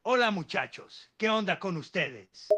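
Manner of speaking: Spanish-speaking impression, lightly put on; Pablo Escobar. Asked to switch accents, mock Spanish-speaking greeting. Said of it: "talk like Pablo Escobar".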